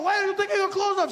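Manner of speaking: very high, loud shocked shriek; shrieking guards. Retold or imitated. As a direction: panic like scandalised guards. Guards voiced in story.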